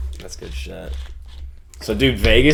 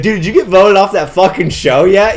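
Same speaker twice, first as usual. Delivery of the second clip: high mock voice; 9 semitones higher, 7 dB louder than usual. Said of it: "he's like, he's like".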